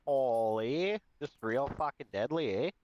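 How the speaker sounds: put-on Alberta hoser accent. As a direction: play up a hockey-bro Alberta accent. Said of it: "Alberta accent".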